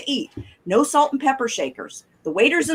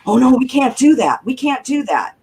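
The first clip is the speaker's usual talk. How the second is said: mock alarm. Mimicking overcautious restaurant rules, mock alarm. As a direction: protest in mock dismay. Mock objection to common sense.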